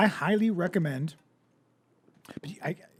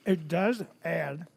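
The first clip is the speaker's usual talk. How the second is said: mouth full; 4 dB quieter, slower than usual. Real, not acted. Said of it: "talk with your mouth full on mic".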